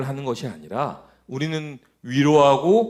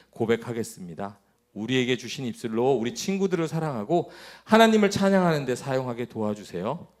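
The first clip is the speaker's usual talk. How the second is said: measured prayer voice, settling lower; closing prayer; 4 semitones lower, 3 dB quieter than usual. Real, not acted. Preacher prays with children after the lesson, prayer voice.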